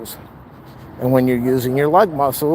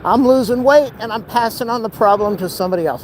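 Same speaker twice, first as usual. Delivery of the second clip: inner voice; 8 semitones higher than usual. Retold or imitated. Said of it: "they're feeling inside".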